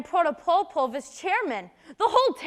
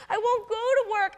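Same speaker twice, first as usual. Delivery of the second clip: higher, crying through the words; tearful; 5 semitones higher than usual. Acted. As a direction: fight back tears. Sister in despair, weeping.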